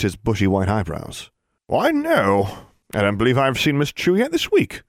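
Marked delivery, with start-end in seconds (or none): 1.7-4.8 high-pitched warlock in character; higher, put-on wizard voice; painted warlock. A narrator's reading. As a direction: answer as a wizard in a portrait, pitched up.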